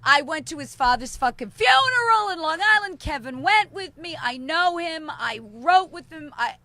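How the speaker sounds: worked-up, emphatic grievance; indignant rant. Real, not acted. Friend venting over a wedding snub, indignant.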